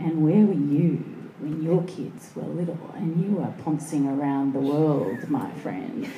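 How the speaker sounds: sarcastic retort that slows down and ends in a laugh; lightly played scorn for the hypocrite; indignant inner voice. Silently answering the colleague who judged her mothering, mock indignant. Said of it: "Use that voice".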